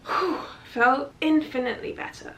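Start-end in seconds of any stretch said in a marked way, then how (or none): 0.1-0.4 relief. Retold or imitated. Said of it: "I felt like".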